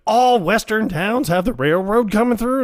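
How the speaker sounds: high mock question; imitating the drunk, high; drunk quote. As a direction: ask it pitched high and amazed. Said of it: "And he's like".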